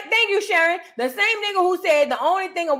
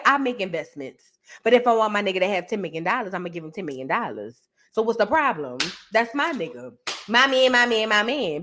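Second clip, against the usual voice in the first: lower, lightly voiced Fani defending her man; imitating Fani; 5 semitones lower than usual. Mimicking Fani on the stand defending her man, lower. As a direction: drop low and insist on my man. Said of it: "That's how she sounded on there".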